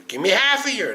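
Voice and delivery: urgent bargaining. Retold or imitated. Groom haggling with the angel of death, pleading. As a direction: bargain with lifted, pleading pitch.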